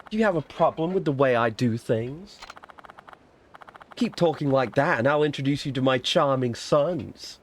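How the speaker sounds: lightly voiced mother making a threat; a touch of veiled menace; menacing fortune-teller. Fortune-teller threatens a man with her sons, mildly menacing.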